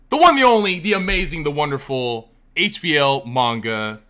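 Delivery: hype introduction. Real, not acted. Hyping up the guest.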